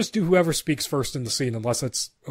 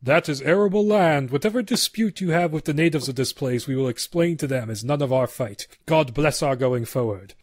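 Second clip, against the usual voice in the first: a hint of a solemn Puritan leader; lightly voiced preacher-like leader; stern pilgrim leader. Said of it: "I'll do the leader".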